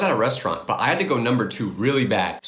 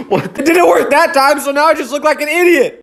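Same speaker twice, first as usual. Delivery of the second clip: embarrassed laugh; 12 semitones higher, 9 dB louder than usual. Real, not acted. Trick fails on camera.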